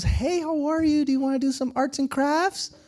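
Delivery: high-pitched, chirpy helper voice; imitated volunteer greeting. Volunteer greets man thought deaf.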